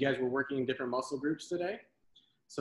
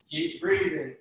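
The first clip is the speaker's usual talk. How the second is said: high cheering call; 13 semitones higher than usual. Real, not acted. Coach cheering during plank rows.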